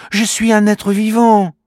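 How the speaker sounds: high small voice, indignant; offended little creature. Acted. Kimamila correcting the girl, indignant little creature voice. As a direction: correct her firmly. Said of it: "répond Kimamila".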